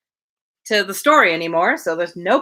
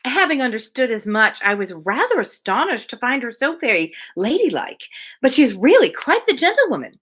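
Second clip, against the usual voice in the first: lightly voiced, eager society lady; gushing Mrs Elton; 3 semitones higher than usual. Reader voicing Mrs Elton to her friend, lightly gushing. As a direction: chatter on brightly, pleased with herself.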